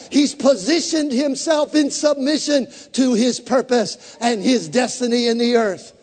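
ordinary talk, nothing marked

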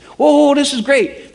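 high, loud delighted gushing; excited. Retold or imitated. Retelling his excited pitch to the robbers. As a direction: rave about it like a thrilled buyer. Excited about the drugs, retold.

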